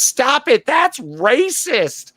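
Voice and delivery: a prim scolding lady voice; imitating offended woman. Host mimicking the viral clip woman, a high scolding voice. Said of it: "She's goes".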